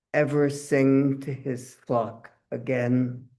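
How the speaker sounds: measured poem reading with deliberate pauses; solemn verse, each phrase set apart; poetry reading. Acted. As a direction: read your poem to an audience, weighing each phrase. Reads own poem aloud.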